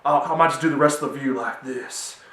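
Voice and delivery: a hint of a weird impression voice; lightly put-on oddball actor voice; Nicolas Cage. Shown as a demonstration. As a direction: toy with a weird celebrity impression. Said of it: "I'm doing weird voices similar to Nicolas Cage".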